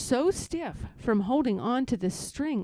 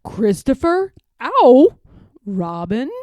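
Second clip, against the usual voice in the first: calling out; 3 semitones higher, 13 dB louder, slower than usual. A narrator's reading. Pooh on balloon calls down to Christopher Robin, loud call. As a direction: shout down to the boy below. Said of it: "called out the cloud".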